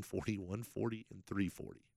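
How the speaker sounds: sliding into a secretive hush; whispering on the phone. Pretend. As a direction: drop to a conspiratorial whisper. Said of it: "Why are you whispering?".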